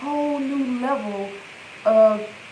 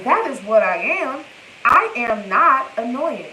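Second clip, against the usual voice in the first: fervent affirmations; 3 dB louder than usual. Real, not acted. Chanting affirmations, growing intense.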